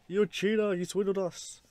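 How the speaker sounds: loud accusing shout; angry accusation. Retold or imitated. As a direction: yell it at the cheat. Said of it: "the husband's like".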